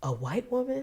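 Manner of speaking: quiet, high-pitched whisper.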